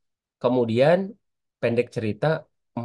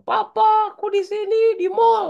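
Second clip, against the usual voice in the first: put-on much higher, a small child calling for papa; child's high call, a bit louder; 6 dB louder than usual. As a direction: call out as a little kid looking for his father. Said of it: "Tiba-tiba anak Herli bilang".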